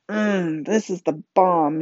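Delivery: talking through a mouthful of steak; words round a big bite; mouth full. Acted. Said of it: "he said with his mouth full".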